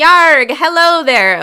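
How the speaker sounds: loud, high-pitched, swashbuckling pirate voice. Being introduced on the show and saying hello, in a pirate voice. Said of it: "I'm not gonna talk like a pirate the whole episode".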